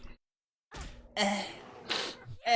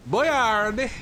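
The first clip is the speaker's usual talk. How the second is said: put-on Boyard squeaked much higher and louder, rising at the end; squeaky Boyard; 11 semitones higher, 8 dB louder than usual. Shown as a demonstration. Streamer repeats Boyard in a squeaky high voice. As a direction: pop Boyard up high like a cartoon. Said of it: "I'm just saying Boyard".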